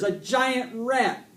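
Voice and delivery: high, loud, drawn-out wail; almost in tears. A narrator's reading. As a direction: wail it slowly, close to tears. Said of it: "He was almost in tears".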